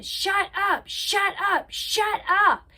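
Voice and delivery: high-pitched mock scream, repeated insistently; half-volume retold shriek; imitated screaming. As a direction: imitate someone screaming in a fight, pitch jumped up. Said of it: "She starts screaming".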